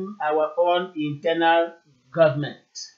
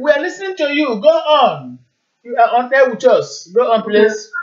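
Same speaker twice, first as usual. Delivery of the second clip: loud, higher and fast; to someone hard of hearing; 5 semitones higher, 4 dB louder than usual. Real, not acted. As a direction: project to a faint caller. Caller on bad line.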